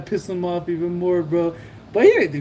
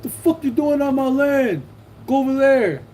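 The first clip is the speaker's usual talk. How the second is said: high, heated imitation of an angry man; retold angry demand; 8 semitones higher than usual. Rival ordering the seller off his land, mock angry. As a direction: order them off, mimicking a territorial rival.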